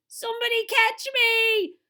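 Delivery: high, loud cry for rescue; panicked scream. Acted. TV star slipping from the bough, panicked scream. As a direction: scream for help mid-slip. Derek about to fall.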